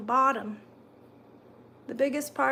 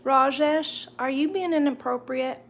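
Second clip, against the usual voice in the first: mock scolding; 2 semitones higher, 6 dB louder than usual. Real, not acted. Scolding a chat viewer.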